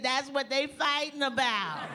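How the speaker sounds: put-on high childlike voice with a laugh; little girl. Little girl answering the teller, high and laughing. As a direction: deliver it innocently, laughing. Girl's punchline.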